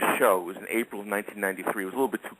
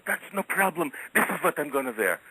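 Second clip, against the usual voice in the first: raised, offhand voice for the Sheik; quoting the Sheik; 6 semitones higher than usual. Retold or imitated. Retelling the Sheik's answer about his dinner outfit, lightly voiced. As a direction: brush it off like the Sheik would. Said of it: "He goes".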